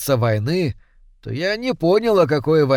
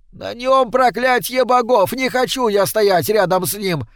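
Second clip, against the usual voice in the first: shrieking in fear; 7 semitones higher than usual. A narrator's reading. Sigurd terrified of the cursed stranger, a high squeal. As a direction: panic as he turns to flee. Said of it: "взвизнул Сигурд".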